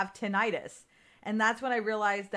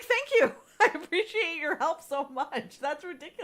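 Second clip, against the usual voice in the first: sarcastic thanks; 6 semitones higher than usual. Retold or imitated. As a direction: gush fake thanks at the doctor. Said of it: "I'm like".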